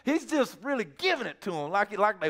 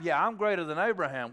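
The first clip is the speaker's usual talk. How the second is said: imitated unbothered retort; nonchalant comeback. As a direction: toss it back coolly, trailing down. Acted casual comeback.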